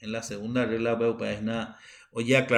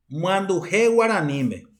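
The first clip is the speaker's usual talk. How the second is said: slow stressed model; 2 semitones higher than usual. Shown as a demonstration. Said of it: "donde se carga la voz".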